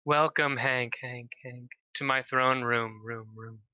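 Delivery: words fading away as echoes; echoing voice. Acted. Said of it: "she goes".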